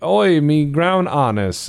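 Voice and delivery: a hammed-up Aussie bloke, drawn out; mock Australian. Australian leaving the house, caught by his harness, in a mock Cockney-Australian accent. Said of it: "'Cause that's how they talk".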